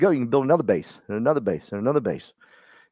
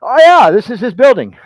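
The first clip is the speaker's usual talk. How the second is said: mock gushing waiter, much higher and louder; imitating a restaurant worker, high and loud; excited restaurant staff; 10 semitones higher, 11 dB louder than usual. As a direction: play the starstruck server bragging about Daniel. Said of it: "I swear to you".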